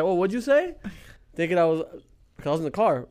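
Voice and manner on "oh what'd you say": high, sneering bouncer challenge; mock tough bouncer. Bouncer taunting the drunk kid, high and sneering. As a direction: imitate the bouncer mocking him. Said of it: "He goes like".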